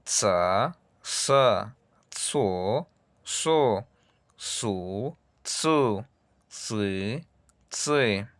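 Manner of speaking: "Tsa" with a ts, "sa" with a plain s, back and forth; ts versus s. Shown as a demonstration. Teacher to class, ts and s contrasted slowly. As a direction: contrast the ts and s syllables crisply. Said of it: "Escuche muy bien".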